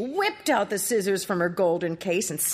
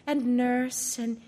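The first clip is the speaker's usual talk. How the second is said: higher, tender farewell of a princess; 6 semitones higher than usual. Acted. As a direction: say goodbye to each one gently. Princess speaks.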